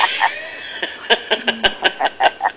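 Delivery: soft, high giggle; laughing. Real, not acted. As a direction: giggle softly for a while. Caller laughs at own message. (tertawa kecil)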